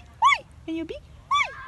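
very high squealed wee; playful squeal. Pretend. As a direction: squeal like a game with the bird. Playing with the bird.

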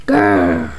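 very low rumbling growl; monster growl. Acted. Monster forming in the trash, deep growl.

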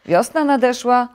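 high, loud wake-up call; excited shout to get up. A narrator's reading. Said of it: "zawołał Żabek".

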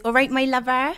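lilting Bristolian greeting, rising at the end; Bristolian accent. Shown as a demonstration. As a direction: model the Bristolian twang. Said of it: "using the best Bristolian twang".

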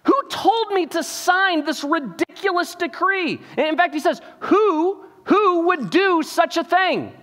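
high, slow indignant demand; a king demanding who tricked him; outraged king. Retold or imitated. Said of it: "he's trying to remember".

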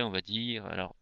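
usual speaking voice

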